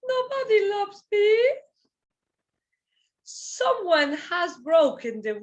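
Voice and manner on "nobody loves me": higher, whiny nobody loves me; mock self-pity. Teacher acts the sentence out for students as mock self-pity. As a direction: pretend to be pitiful.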